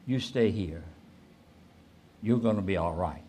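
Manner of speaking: calm, kind voice. Retold or imitated. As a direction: gently retell a stranger's comfort. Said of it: "in a wonderful voice".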